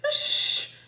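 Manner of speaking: sharp loud hush; shushing. Acted. Jack hushing Annie so they're not noticed, shushing. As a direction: cut her off with a hiss.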